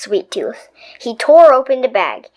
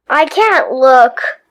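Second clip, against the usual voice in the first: whimpered; 4 dB louder, slower than usual. Acted. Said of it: "whimpered his sister".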